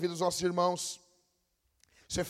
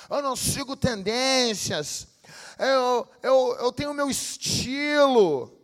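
mocking quote; 6 semitones higher, 4 dB louder, slower than usual. Mocking self-styled originals.

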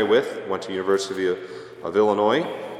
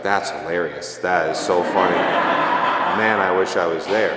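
inner laughter; 3 semitones lower, slower than usual. Retold or imitated. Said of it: "on the inside, I'm like".

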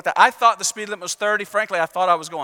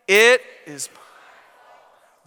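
"It is my fault" slow and loud, every word weighed; 6 dB louder, much slower than usual. Shown as a demonstration. Preacher leading the congregation, saying it slow and loud. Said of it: "Say it out loud with me".

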